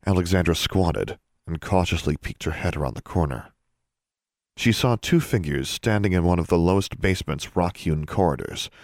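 ordinary delivery

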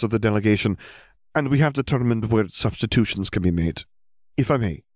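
businesslike teacher voice; walk her through it; brisk McGonagall. Acted. Headmistress explaining subjects to Hermione, brisk.

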